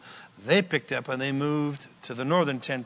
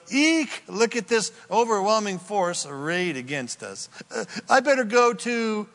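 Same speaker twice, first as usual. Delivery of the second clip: mock panic; 5 semitones higher than usual. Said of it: "when any king goes".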